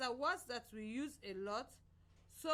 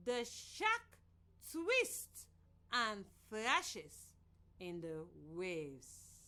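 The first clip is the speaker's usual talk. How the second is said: dramatic model read; 3 semitones lower, much slower than usual. Shown as a demonstration. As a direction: pitch leaps on twists, the rest slows and falls. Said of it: "I'll say the sentence and you'll do your drama".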